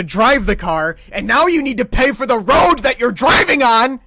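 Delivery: building from calm to a loud, high, furious rant. Retold or imitated. Rant about tolls building to a high furious shout. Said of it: "because I was like".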